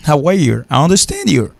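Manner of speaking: "How are you" et "I understand you" en anglais, plus aigus; démontrer les phrases anglaises; anglais démontré. Shown as a demonstration. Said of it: "Et comme ça, ça dit". (anglais parlé démontré)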